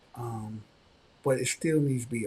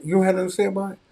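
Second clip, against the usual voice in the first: high, loud demand; father can't believe her; exasperated father; 7 semitones higher, 8 dB louder, much faster than usual. Retold or imitated. Father confronting his daughter, loud and high.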